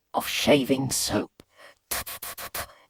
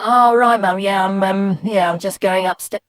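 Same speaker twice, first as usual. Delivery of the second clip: stammered excuse, loud at first then sinking; flustered child caught; 3 semitones higher, 5 dB louder than usual. Acted. Boy caught stamping by mum, flustered excuse. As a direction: hastily improvise an innocent explanation.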